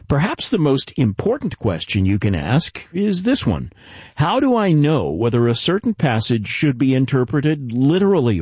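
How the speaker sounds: measured, polished broadcast intro; radio programme announcer. Acted. Host welcoming listeners to the Bible teaching series, announcer read.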